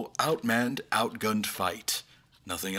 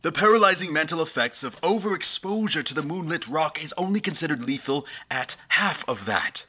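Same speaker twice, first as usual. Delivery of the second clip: higher and fast, racing through the facts; alarmed urgency; 6 semitones higher, faster than usual. Acted. Doctor explaining to the king that the rock's effects shouldn't reach that far, urgent.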